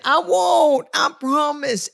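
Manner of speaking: hammed-up meek wife swearing she won't; promising her husband, half-mock pleading; mock pleading promise.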